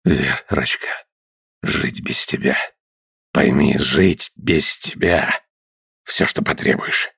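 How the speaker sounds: low, unvoiced, desperate whisper; breathless whisper. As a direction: plead in a gasping whisper.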